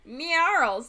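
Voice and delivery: Murals said as a clipped "merls"; odd pronunciation. Shown as a demonstration. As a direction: say Murals squeezed to one syllable, "merls". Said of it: "Did you hear how I said that? 'Cause it was repulsing".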